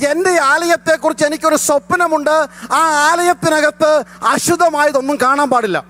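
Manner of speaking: preaching at full force. Acted. Pastor preaching to his congregation, full force. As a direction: proclaim it to the whole congregation, drawn out.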